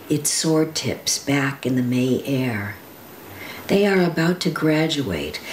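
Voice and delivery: steady, vivid recital of a poem; poem reading. Acted. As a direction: paint each memory plainly and carefully. Reads Sharon Olds poem.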